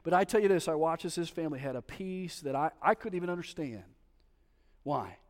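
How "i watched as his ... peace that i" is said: usual speaking voice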